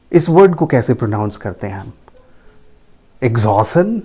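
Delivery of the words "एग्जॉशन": एग्जॉशन as eg-ZAW-sun; common mispronunciation. Shown as a demonstration. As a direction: leave the CH out of एग्जॉशन. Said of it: "That is also wrong". (एग्जॉशन का गलत उच्चारण, बिना च के)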